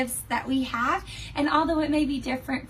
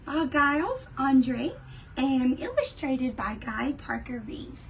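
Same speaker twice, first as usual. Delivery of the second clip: storybook read-aloud voice; reading to children; 2 semitones higher than usual. Acted. Teacher reading a picture book to her class, in a lively storytime voice. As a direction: read it like story time for kids.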